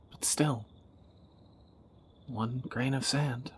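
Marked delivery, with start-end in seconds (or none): 0.1-0.6 whispered doubt. Acted. Fearing losing partner tonight.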